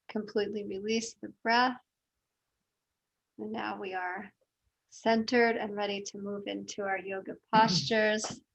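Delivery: softly guided breathing, unhurried; breathing meditation guide. Real, not acted. Yoga teacher guiding the class's breathing, soft and calm. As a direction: settle them gently into the breath.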